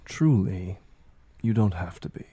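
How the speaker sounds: a mildly tired, cool voice that brushes off the sympathy; detached Ramona, weary. Acted. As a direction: shrug off the pity calmly, like a chore she must finish. GM voices Ramona replying to Lola.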